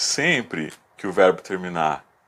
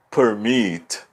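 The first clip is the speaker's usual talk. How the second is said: permit in two parts, weight on MIT; stress on last syllable. Shown as a demonstration. Teacher illustrating strong final syllables, permit with MIT stressed. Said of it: "elas são as últimas sílabas fortes".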